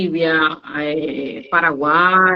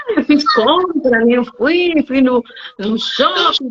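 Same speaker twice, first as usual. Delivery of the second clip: student quoted; 5 semitones higher than usual. Retold or imitated. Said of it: "Eu falo assim".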